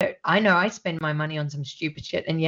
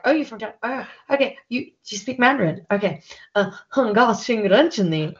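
mock tourist Mandarin; 5 semitones higher than usual. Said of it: "I'll go to a Chinese person and be like".

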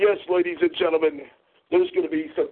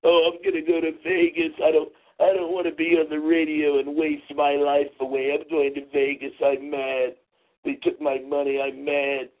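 imitating a whiny complainer, lightly; half-hearted whiny impersonation; mock whining. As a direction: run the complaints together in a mocking drone. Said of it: "a little whiny bitch".

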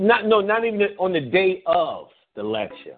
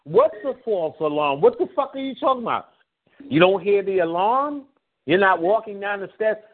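mock exasperated; 4 semitones higher than usual. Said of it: "I'm like".

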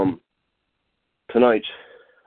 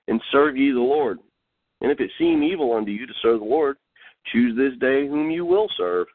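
measured Bible reading with lifted phrase endings; solemn declaimed verse, settling at the close; scripture reading; 3 semitones higher than usual. Acted. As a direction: read the verse out deliberately, phrase by phrase. Reads scripture aloud.

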